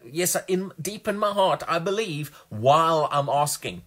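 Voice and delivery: mimicking a self-assured asker; mock so-called faith. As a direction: put on a high voice of supposed belief. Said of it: "their so-called".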